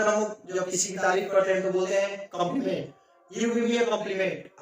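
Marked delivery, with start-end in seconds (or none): 3.3-4.6 very slow, word by word; slow teacher dictation of "You give me a compliment". Shown as a demonstration. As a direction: spell the sentence out for students. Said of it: "teacher dictates example sentence".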